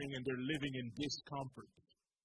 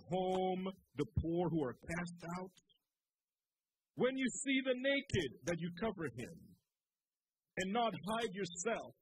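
scripture preaching. Acted. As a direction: proclaim God's answer with rising force. Preacher reads God's reply.

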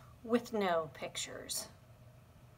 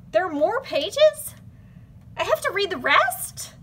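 dismayed; 6 semitones higher, 6 dB louder than usual. Acted. Reader dismayed.

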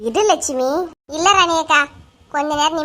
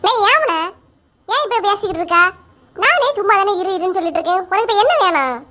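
irritated scolding; 4 semitones higher than usual. Acted. Irritated at young woman.

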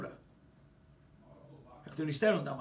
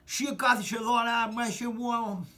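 hammed-up brute, higher and louder, very slow; brute's demand; 4 semitones higher, 5 dB louder, slower than usual. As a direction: drag it out like a thug claiming a seat. Brute orders him to sit. (αργή, βαριά φωνή νταή)

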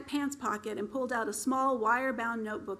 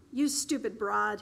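spat insult. Acted. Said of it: "he spat out at Forestina".

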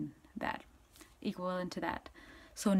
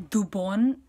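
두 번 with the weight on 번, 두 left light; 번 stressed, 두 unstressed; 3 dB louder than usual. Shown as a demonstration. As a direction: lean on 번, not on 두. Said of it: "emphasis on the 번, not the 두".

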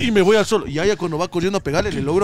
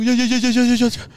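high, repeated begging to stop; panicked retold plea; 6 semitones higher than usual. Daughter begging attacker to stop, high mock panic. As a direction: beg rapidly in a raised pitch. Acted plea while being choked.

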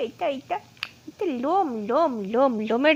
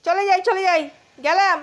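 higher, louder sing-song goodbye; teasing; 7 semitones higher, 4 dB louder than usual. Real, not acted. Owner teasing the pet that she's really leaving, sing-song. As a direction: tease the pet that you're leaving.

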